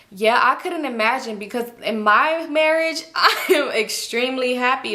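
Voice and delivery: slow, smug, laughing; smug boast. Retold or imitated. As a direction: boast about it. Imitating Janet's boast.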